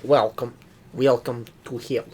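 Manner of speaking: a hint of Russian menace; Russian accent. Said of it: "trying to put on a Russian accent".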